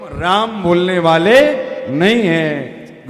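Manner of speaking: defiant loud refusal. Retold or imitated. Boy defiantly refuses the guru.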